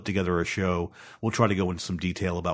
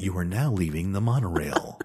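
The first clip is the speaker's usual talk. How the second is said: theme park announcer. Pretend. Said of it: "maybe at Disney World".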